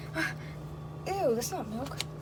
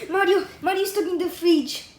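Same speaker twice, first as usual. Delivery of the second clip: put-on lightly done Italian accent; a touch of put-on Italian; 4 semitones higher than usual. Luigi telling Sonic Mario is stuck, Italian accent. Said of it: "say fridge like that".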